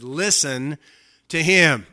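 "Listen to him" broken by a pause, "him" loud; emphatic command. Acted. Father cuts off blabbing Peter, "Listen to him" said emphatically. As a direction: land hard on "him" after a pause. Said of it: "he said this for emphasis".

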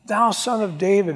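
high, drawn-out plea that won't be distracted; acted desperate cry for help, stretched out; freaking out, pleading. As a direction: wail it slowly, begging for mercy. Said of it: "He just kept freaking out".

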